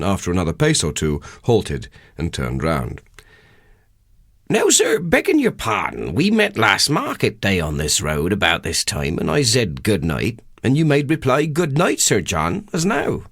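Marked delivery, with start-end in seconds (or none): 4.5-13.2 a lightly voiced Wessex labourer, higher than the narrator; a humble country haggler, half polite, half puzzled; rustic old countryman. Haggler Durbeyfield questions the parson on the road, rustic and puzzled.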